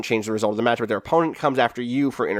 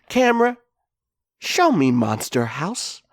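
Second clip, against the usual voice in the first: lightly hammed-up showman's command; Shaw; 4 semitones higher than usual. Wrestler cueing the camera to go backstage, mild showman voice. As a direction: call for the camera, high at first then slowing. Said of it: "he says, like".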